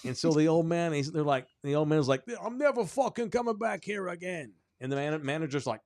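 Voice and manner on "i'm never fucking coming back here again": high, indignant New York parting shot; outraged New York old-man squawk; huffy New York accent. Acted. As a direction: imitate an irate old New Yorker storming off. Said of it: "in that New York accent".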